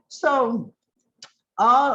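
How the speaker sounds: ordinary talk, nothing marked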